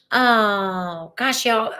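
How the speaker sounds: welling up. Real, not acted. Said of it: "I'm gonna start crying".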